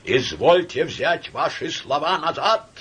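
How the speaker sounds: high, loud, slow demand; demanding shout. Acted. Samoylenko shouting at Laevsky. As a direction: order him to take it back. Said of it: "крикнул Самойленко".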